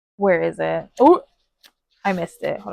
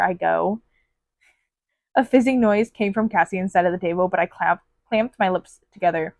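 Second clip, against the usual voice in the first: 1 story reading. Acted. Reading excerpt aloud.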